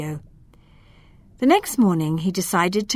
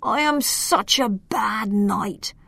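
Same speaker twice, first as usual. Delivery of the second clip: groaning lament; 5 semitones higher than usual. Acted. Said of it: "He groaned".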